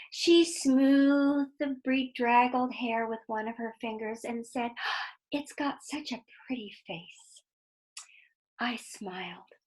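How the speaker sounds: put-on expressive read-aloud to children; lively storyteller voice for kids; story narration. A narrator's reading. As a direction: tell it like a bedtime story, drawing them in.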